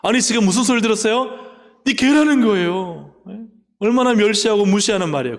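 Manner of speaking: rally the crowd with shock; indignant outburst. Acted.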